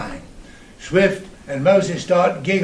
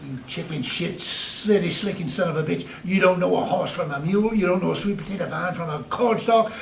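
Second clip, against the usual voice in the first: much softer seething thought; softer, bitter inner thought; 6 dB quieter than usual. Retold or imitated. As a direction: mutter it under your breath. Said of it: "I think to myself".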